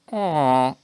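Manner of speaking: drawn-out villager noise, sliding down; villager grunt. Retold or imitated. Asking co-host about the game villager, imitated grunt. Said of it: "Does the villager go".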